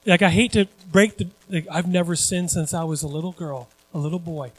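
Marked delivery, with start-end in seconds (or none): 1.7-4.5 soft, quiet mimicked protest; mock innocence. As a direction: drop the volume, feigning innocence. Mimics someone claiming innocence.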